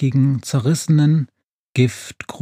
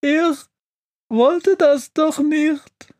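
very high, slow wailing; sobbing; slower than usual. A narrator's reading. Witch whose stove ran away, sobbing. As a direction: wail it as if in tears. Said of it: "schluchzt die Hexe".

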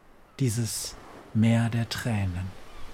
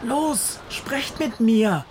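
commanding; 12 semitones higher, much slower than usual. A narrator's reading. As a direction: order the fish to speak. Witch commands fish.

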